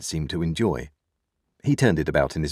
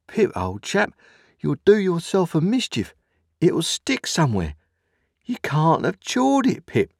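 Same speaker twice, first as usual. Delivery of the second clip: high-pitched earnest warning; serious remonstrance; 12 semitones higher, 3 dB louder than usual. A narrator's reading. Joe cautioning Pip about bolting his bread, in serious remonstrance. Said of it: "in very serious remonstrance".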